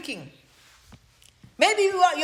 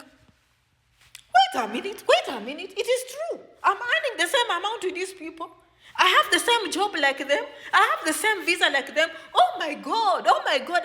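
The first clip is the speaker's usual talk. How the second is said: dawning realization; 4 semitones higher than usual. Retold or imitated. A migrant realizing five years were wasted, surprised. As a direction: let the truth hit you mid-sentence. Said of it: "You're like".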